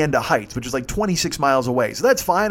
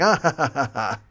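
imitated group laugh; 3 semitones lower than usual. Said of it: "And they all start laughing".

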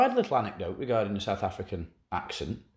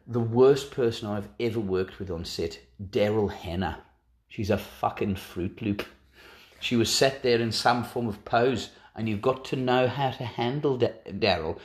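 put-on South African accent. Quoting a film worker overheard in Brighton, light South African accent. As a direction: carry the South African accent through the gossip. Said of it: "I could do a South African accent".

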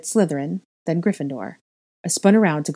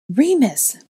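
high, loud, astonished cry; chorused exclamation; 8 semitones higher, 5 dB louder than usual. A narrator's reading. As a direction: exclaim the name in surprise. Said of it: "the others chorused".

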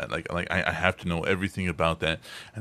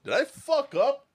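slow, put-on ominous voice; scary character voice; slower than usual. Voice actor riffing on a startled phone caller, ominous voice. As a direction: draw it out in a hammed-up character voice.

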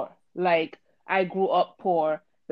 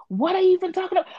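high, loud, fast mock denial; lady who hit the car, high and fast; 11 semitones higher, 4 dB louder, faster than usual. Voicing the white lady.

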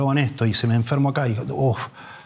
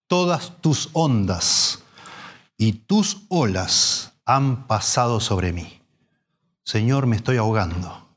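slow solemn psalm; slower than usual. Acted. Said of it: "se da cuenta que es Dios que lo está ahogando".

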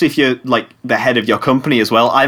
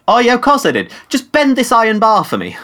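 high mocking clerk; 8 semitones higher than usual.

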